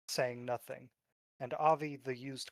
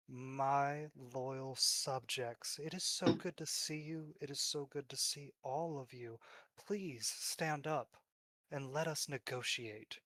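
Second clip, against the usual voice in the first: lordly god voice; 5 dB quieter than usual. Acted. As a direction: greet kneeling worshippers like a smug deity. GM voices god Avi to worshippers.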